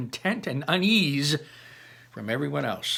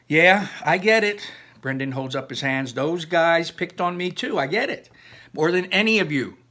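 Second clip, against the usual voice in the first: higher and louder, defending himself; defensive protest; 5 semitones higher, 4 dB louder than usual. Acted. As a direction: insist you understand. Brendan defends himself loudly.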